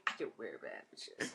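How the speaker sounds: breezy model voice. Retold or imitated. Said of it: "You're like".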